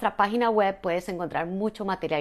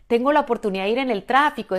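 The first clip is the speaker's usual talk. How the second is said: higher, louder and quick, as if it's good news; excited reframe; 4 semitones higher, 6 dB louder, faster than usual. Shown as a demonstration. Coach showing listeners the traffic as a gift, bright and quick. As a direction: burst out brightly and fast.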